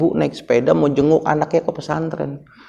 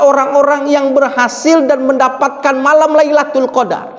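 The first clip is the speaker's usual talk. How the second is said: raised, emphatic preaching voice; 6 semitones higher, 4 dB louder than usual. Acted. Preacher telling the congregation of angels descending, preaching. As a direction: preach it out with rising force.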